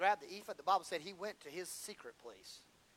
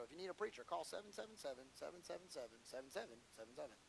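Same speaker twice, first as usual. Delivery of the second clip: mock commercial; 4 semitones lower, 14 dB quieter than usual. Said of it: "Maybe I should do a commercial".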